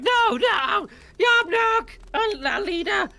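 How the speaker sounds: very high, loud goblin wails; screaming goblins. Acted. Goblins screaming for their leader Yopnok. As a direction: shriek for the lost leader. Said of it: "They're screaming like".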